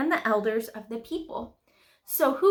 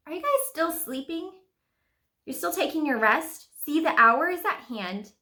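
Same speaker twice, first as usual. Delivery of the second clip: acted incredulous rebuke; 5 semitones higher than usual. Jesus finds disciples still sleeping.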